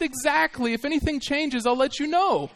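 high, matter-of-fact punchline; the farmer answers his wife, pitched high; deadpan husband. Retold or imitated. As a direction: deliver the husband's line dryly. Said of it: "And he said".

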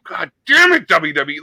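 choked up and exclaiming at the tribute; emotional outburst. Retold or imitated. Fan watching the rocking chair tribute on SmackDown, emotional outburst. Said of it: "I did kinda go".

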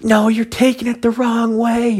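high-pitched whiny mock protest. Imitating the creep's excuse.

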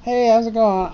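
a hint of a hammed-up dude greeting; mock American greeting. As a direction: answer him in kind, mock-casual. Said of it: "I would just be like".

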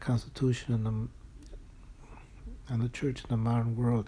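holding back tears while reading; choked up. Real, not acted. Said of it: "it makes me choke up".

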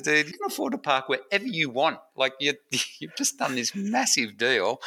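a hint of his wife scolding playfully; wife teasing the friend about his wealth; imitating Liz. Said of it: "Liz hits him on the arm and says".

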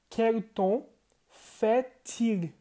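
"Quel temps fait-il" with the T linked to the I; French teaching model. Shown as a demonstration. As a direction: say "fait-il" as fé-til, the T joined to the I. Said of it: "esse T no final se junta com I". ("fait-il" com o T ligado ao I)

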